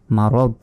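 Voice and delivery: মারদ ending on a vowelless d; stopping with sukun. Shown as a demonstration. Teacher models the pause form, মারদ with no final vowel. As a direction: stop dead on the d of মারদ. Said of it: "এভাবে উচ্চারণ হবে".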